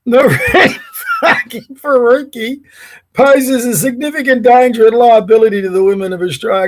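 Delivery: reading on through giggles; fighting back laughter mid-sentence; laughing. Real, not acted. Reading the post's insult aloud, laughing.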